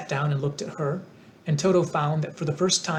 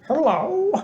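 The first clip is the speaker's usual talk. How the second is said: calm; 14 semitones higher, 6 dB louder than usual. A narrator's reading. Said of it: "replied the Tin Woodman calmly".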